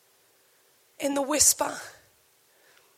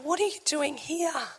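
softer, quiet question with stress on are; gentle question; 7 dB quieter than usual. Acted. God asking Elijah softly, quiet. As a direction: ask it softly, like God's still voice.

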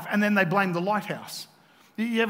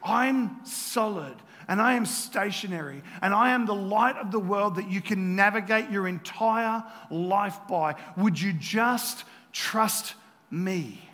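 solemn assurance; slower than usual. Acted. Preacher voices Jesus urging trust.

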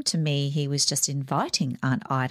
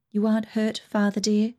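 respectful; 6 semitones higher than usual. Acted. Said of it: "turned respectfully to Father".

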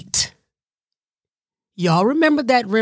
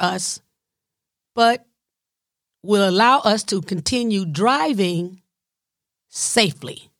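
pleading inner cravings. Retold or imitated. Her hungry innards bargaining with her, lightly voiced coaxing. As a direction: let the hungry gut beg, milkshake please. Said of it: "My innards were like".

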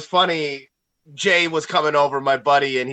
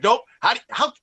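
imitating a cocky fan; 8 semitones higher than usual. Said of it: "Jay's just like".

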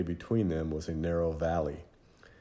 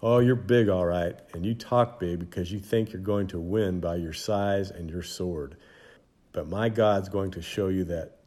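1 defiant retort. Acted. David defies Goliath.

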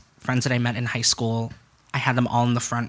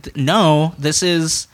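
louder, higher outraged protest; indignant refusal; 5 semitones higher, 6 dB louder, slower than usual. Retold or imitated. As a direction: cut them off with an exasperated no. Retold refusal to mother's family.

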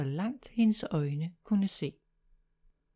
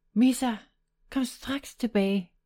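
shouting loudly; 5 semitones higher than usual. Acted. Sara shouts after her runaway cat, loud and firm. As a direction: call the cat back as loud as you can. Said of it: "råbte Sara, så højt hun kunne".

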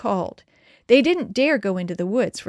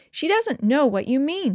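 higher-pitched, upset protest; choked child's plea; 6 semitones higher than usual. A narrator's reading. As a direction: say it close to tears. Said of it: "Denny choked".

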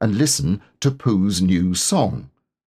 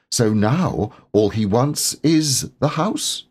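lazy; 5 semitones higher, slower than usual. Acted. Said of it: "lazily nibbling".

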